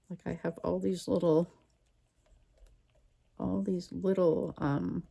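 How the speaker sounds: talking around a paintbrush; words muffled by brush in teeth; paintbrush in mouth. Real, not acted. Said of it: "I'm talking with the paintbrush in my mouth".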